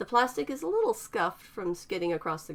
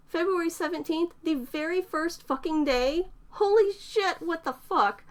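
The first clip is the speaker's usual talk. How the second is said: higher, louder frantic swearing; losing it in disbelief; young woman freaking out, loud; 11 semitones higher, 5 dB louder than usual. A narrator's reading. Eterna freaks out.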